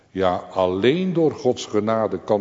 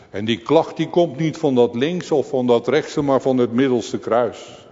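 higher and louder, building sermon intensity; rising fervent preaching; 5 semitones higher, 6 dB louder than usual. Acted. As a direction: drive the story toward the cry. (vurig prekend, steeds hoger en luider)

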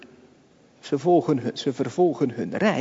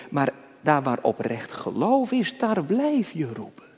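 ordinary delivery

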